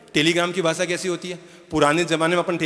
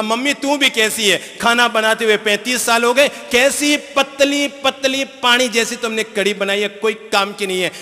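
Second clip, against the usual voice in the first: son complaining; 6 semitones higher, 5 dB louder than usual. Retold or imitated. Son complains about thin curry.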